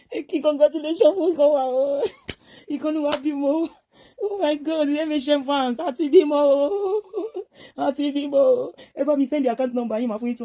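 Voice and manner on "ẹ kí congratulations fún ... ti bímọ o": raised, elated cheering; rally the fans with happy news; excited cry with drawn-out endings; joyful announcement. Real, not acted. Calling fans to celebrate the birth.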